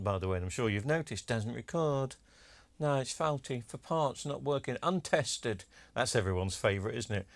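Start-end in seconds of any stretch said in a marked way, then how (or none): 1.3-5.6 put-on accent of an eBay seller listing faults; mock seller accent. Collector mimicking eBay sellers' listings, mock seller accent. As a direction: reel off excuses in a lightly mocking seller accent. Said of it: "they always say that in that particular accent".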